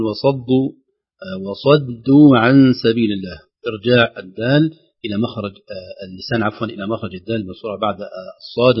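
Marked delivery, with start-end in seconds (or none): 0.0-3.4 وصدوا with a plain د, not ض; careful reading of وصدوا; slow correct demo. Shown as a demonstration. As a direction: recite وصدوا slowly. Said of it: "يقول".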